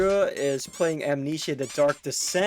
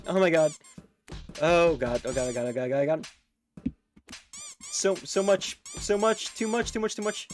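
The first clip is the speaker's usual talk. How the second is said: shrieking jackpot winner. Real, not acted. Subs keep pouring in.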